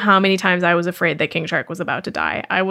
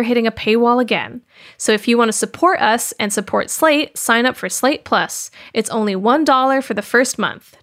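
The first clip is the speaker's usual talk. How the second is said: scripted promo read; 3 semitones higher than usual. Real, not acted. Host reminding listeners about Slate Plus, promo read. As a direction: pitch the membership to the listeners.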